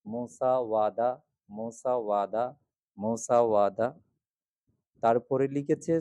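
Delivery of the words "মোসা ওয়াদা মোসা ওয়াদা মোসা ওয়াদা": teacher correcting ব to ও; corrected Pali word. Shown as a demonstration. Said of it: "ব থেকে ও".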